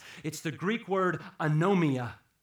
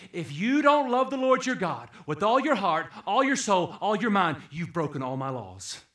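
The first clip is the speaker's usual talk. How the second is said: fervent voicing of Jesus; 3 semitones higher, 8 dB louder than usual. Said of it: "Jesus would say to us tonight".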